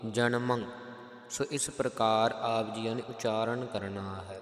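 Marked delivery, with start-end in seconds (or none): 0.1-0.6 ਜਨਮੰ with an audible nasal ending; model pronunciation. Shown as a demonstration. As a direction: let the nasal ring on ਜਨਮੰ. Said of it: "ਟਿੱਪੀ ਦੀ ਆਵਾਜ਼ ਜ਼ਰੂਰ ਆਵੇ". (ਜਨਮੰ ਵਿੱਚ ਟਿੱਪੀ ਸਾਫ਼ ਸੁਣੇ)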